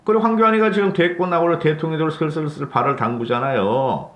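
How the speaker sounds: usual speaking voice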